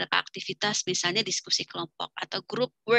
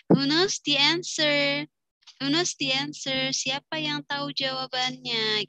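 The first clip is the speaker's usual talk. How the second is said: slow, higher teacher question; asking the class; 5 semitones higher, slower than usual. Shown as a demonstration. Teacher pointing at class asking who knows, slow. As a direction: point and invite answers. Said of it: "Gesture kita sambil jari nunjuk".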